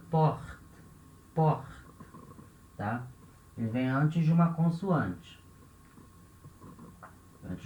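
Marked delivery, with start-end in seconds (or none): 0.1-1.7 'porte' with a guttural R before a final T; short 'porte' with throat R. Shown as a demonstration. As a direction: scrape the R in 'porte' at the back of the throat. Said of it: "ele vem da garganta".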